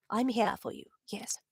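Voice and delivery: soft breathy whisper; whispered to a fan. Real, not acted. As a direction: whisper it close and kind.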